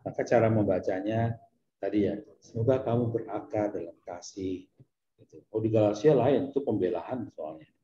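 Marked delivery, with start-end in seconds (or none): 2.4-4.7 mildly softened, tender blessing; calm, understated reading of a tender letter; gentle reading. Shown as a demonstration. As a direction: read it gently, without any push. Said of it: "di Efesus itu dia lembut sekali".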